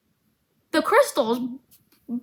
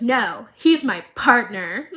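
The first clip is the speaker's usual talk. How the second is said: mock crying; 5 dB louder, slower than usual. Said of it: "Jace interrupts her and goes".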